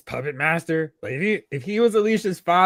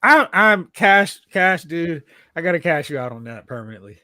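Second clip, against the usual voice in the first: character voice; 4 dB louder than usual. Retold or imitated. Acting out a movie character.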